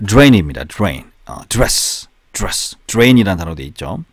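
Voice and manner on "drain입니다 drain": "drain" with D running straight into R; no vowel between D and R in "drain"; blended DR. Shown as a demonstration. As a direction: model English "drain" as one syllable. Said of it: "D와 R 발음이 붙어서".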